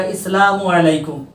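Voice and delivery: इस्लामु अलैकुम with is- replacing the as-sa- sound; wrong islamu. Shown as a demonstration. Teacher showing pupils the wrong इस्लामु अलैकुम. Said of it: "ये गलत है।".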